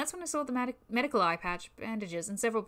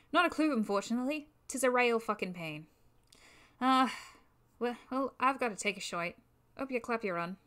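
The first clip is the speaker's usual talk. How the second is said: bad Irish accent. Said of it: "I'm gonna screw up this Irish accent".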